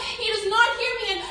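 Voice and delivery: high-pitched, anguished poetic cry; pleading at the peak of the poem; desperate high plea. Acted. Repeat at peak of screaming plea.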